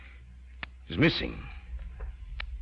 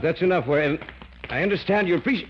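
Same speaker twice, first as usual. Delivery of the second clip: high, strained plea for help; strangled plea; 12 semitones higher than usual. Acted. Scientist being choked begs David for help, high strained fear. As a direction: choke out the plea under attack. Hand on his throat.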